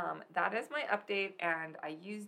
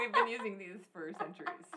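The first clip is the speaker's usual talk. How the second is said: mock farmers' comeback through laughter; laughing retort. Farmers answering millennials about mason jars, laughing. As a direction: laugh through the imitated reply.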